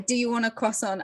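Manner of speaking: croissant falling at the end; statement-like fall on croissant; question as statement. Shown as a demonstration. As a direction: ask it without really asking, croissant dropping. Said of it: "is never really a question".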